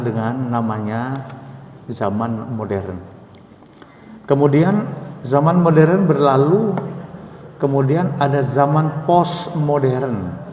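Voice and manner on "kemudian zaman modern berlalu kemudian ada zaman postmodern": rising emphasis. Real, not acted. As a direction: raise the voice on modern. Sermon builds to climax. (nada tinggi berkhotbah)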